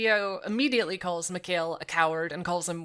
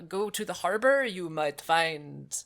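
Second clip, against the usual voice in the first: imitating French accent. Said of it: "I don't know what this accent is".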